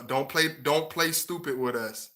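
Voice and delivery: normal talking voice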